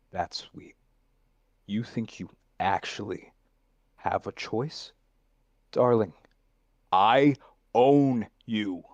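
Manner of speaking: savoring every word of I own you, slow and controlling; possessive villain read. Shown as a demonstration. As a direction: own them like a signed contract. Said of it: "Do it again when you're tasting "I own you." This is a contract".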